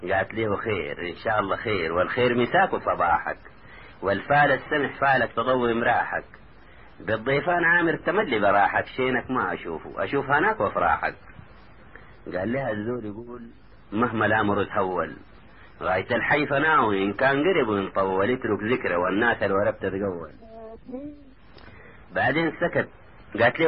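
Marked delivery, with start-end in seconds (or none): 0.5-11.1 rhythmic poem of good wishes; verse recitation. A narrator's reading. Cousin wishes Taha well, recited in verse. 13.9-20.3 measured dialect poem recital; verse recitation. A narrator's reading. Taha reassures his cousin in verse, recited.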